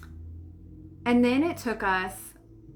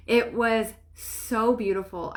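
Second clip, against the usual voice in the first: emotional; slower than usual. Real, not acted. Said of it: "this makes me so emotional".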